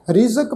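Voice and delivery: ਰਿਜ਼ਕ with a clear z; dotted z sound. Shown as a demonstration. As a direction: say ਰਿਜ਼ਕ as rizak, not rijak. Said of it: "ਜੱਜੇ ਪੈਰ ਬਿੰਦੀ ਨਾਲ".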